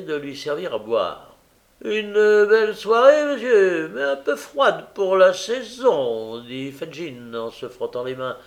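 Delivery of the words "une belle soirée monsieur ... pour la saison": put-on oily old Fagin. A narrator's reading.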